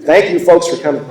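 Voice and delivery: lightly imitated crabby stage thanks; a hint of the old crab at the mic; a singer between songs. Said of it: "such an old crab when he talks".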